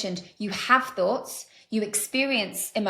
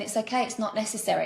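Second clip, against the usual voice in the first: calm dismissal. Shown as a demonstration. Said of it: "you just get to give that statement".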